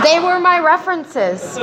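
laughing as she says it, high and slow. Real, not acted. Recalling friends who vouched for her, laughing. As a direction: let the laugh spill into the words.

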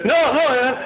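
high, hammed-up choked-back tears; mock near-tears denial. Groom denying tears to his friend, mock tearful. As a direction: insist you're fine, comically close to crying. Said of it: "is he gonna cry".

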